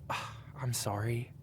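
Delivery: whispered apology. Acted. Apologizing softly before revealing truth.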